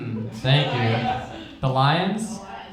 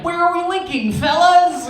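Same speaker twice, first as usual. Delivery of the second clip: high-pitched, hammed-up shout; over-eager call-out; 4 dB louder than usual. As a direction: call out to the gang, comically high. Acting eager gang member on call.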